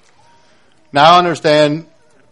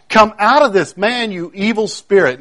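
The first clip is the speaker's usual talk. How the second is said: higher-pitched, mildly commanding rebuke; retold rebuke; 4 semitones higher than usual. Preacher voices Jesus casting out evil spirit, retold rebuke. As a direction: order it out, as a preacher quoting. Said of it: "Jesus did rebuke the evil spirit".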